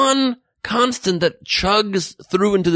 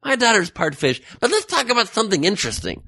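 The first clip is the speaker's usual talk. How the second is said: breezy mom; 4 semitones higher than usual. Retold or imitated. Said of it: "breezes by it like it's okie dokie".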